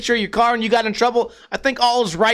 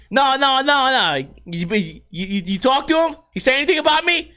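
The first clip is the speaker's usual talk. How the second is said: higher, eager Jersey guy; Jersey accent; 5 semitones higher than usual. Retold or imitated. Store guy pumping the repairman for news, Jersey accent. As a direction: stammer and pry in a Jersey accent. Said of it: "kinda like a Jersey accent".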